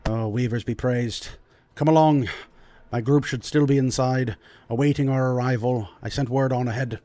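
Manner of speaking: lightly voiced lord, measured and formal; hint of an old noble host, pausing to choose words; dwarf lord. Game master plays the Lord.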